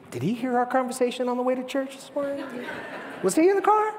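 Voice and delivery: quick, laughing, joking aside; laughing mock suspicion. Congregation member jokes to the preacher, laughing. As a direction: play the churchgoer who feels caught out. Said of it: "Some of you are like".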